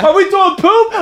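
fake laughing. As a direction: play a giddy fake-laughing extra. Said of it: "be like".

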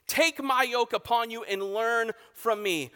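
moderate preaching shout. Acted. Jesus calling to the weary in front of religious leaders, moderate shout.

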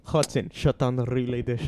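playful fake Russian accent; mock Russian accent. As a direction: put on a Russian accent for a military-style order. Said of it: "That's Russian too".

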